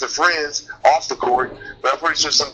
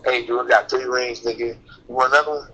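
Curry impression. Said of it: "he goes over there with his rings on".

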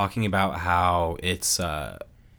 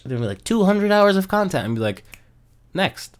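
excited; 12 semitones higher, 7 dB louder than usual. Retold or imitated. Mocks dismissive gamers.

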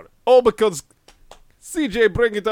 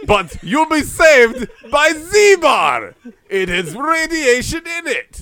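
laughing; 7 semitones higher, 7 dB louder, slower than usual. Pretend. Mock promise, laughing, slow.

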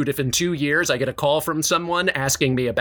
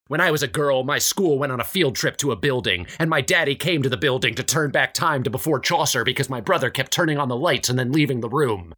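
Zappy Lady. Acted. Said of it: "Zappy Lady".

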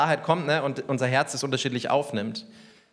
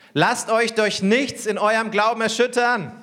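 high, loud and slow proclamation; shouted; 7 semitones higher, 4 dB louder than usual. Retold or imitated. Jesus shouting to his disciples, slow loud cry. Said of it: "schrie Jesus seine Jünger an".

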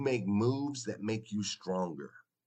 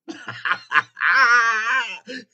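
loud whooping laugh, pitched way up; big shouted laugh; 13 semitones higher, 13 dB louder than usual. Real, not acted. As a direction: burst out in a screaming laugh of delight. Hype moment on the show.

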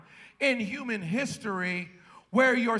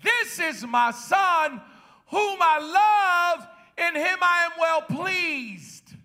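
voice of God the Father; 4 semitones higher, slower than usual. Acted. Preacher voicing God the Father at the baptism, slow and booming. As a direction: proclaim it like a voice from heaven. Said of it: "Jesus heard a voice that said".

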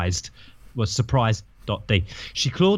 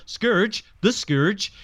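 higher, astonished double-take; surprised question; 7 semitones higher, slower than usual. A narrator's reading. Starpour realising who Scourge is, higher and astonished. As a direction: repeat the name in disbelief. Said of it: "She read some mudge about him".

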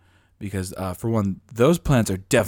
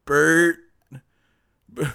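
pleading plant; 9 semitones higher, 4 dB louder, much slower than usual. Pretend. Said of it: "they're like".

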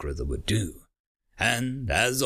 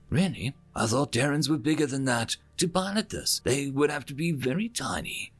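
a hint of a naive, curious old mother, higher; lightly voiced mother; 4 semitones higher than usual. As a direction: wonder aloud like a sweet, innocent mother.

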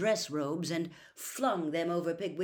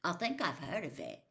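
vaguely; 3 dB quieter than usual. Acted. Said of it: "said Ron vaguely".

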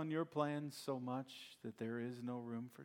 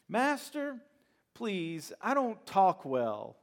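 high, loud, pleading Moses making excuses; 7 semitones higher, 9 dB louder, slower than usual. Acted. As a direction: beg God like a reluctant man with other plans.

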